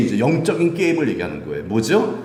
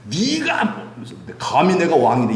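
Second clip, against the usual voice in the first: angry king; 2 semitones higher, slower than usual. Retold or imitated. Proud king turns on the priests, mock angry outburst. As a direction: act out a proud king losing his temper. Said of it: "막 화내고".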